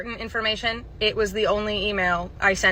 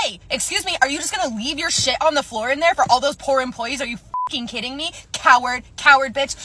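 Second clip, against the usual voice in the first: higher-pitched indignant telling-off; mock yell after a culprit; retold yelling; 5 semitones higher, 3 dB louder than usual. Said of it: "So I yelled at her".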